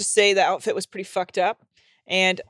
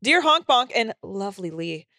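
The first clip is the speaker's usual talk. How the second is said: lively, presentational letter reading; animated read-aloud delivery; reading an email aloud; 4 semitones higher than usual. Acted. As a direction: read out a listener's letter to the audience. Reads a listener's email aloud.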